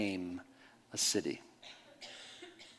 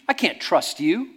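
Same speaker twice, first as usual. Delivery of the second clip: I can't trust you, louder and slower; mock accusation; 5 semitones higher, 5 dB louder, slower than usual. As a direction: point the finger and drag it out. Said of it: "And he went".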